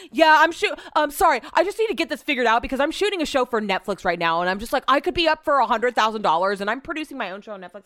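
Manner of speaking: hammed-up braggart on the phone bragging about Netflix; mock bragging caller. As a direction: puff up like a self-important producer.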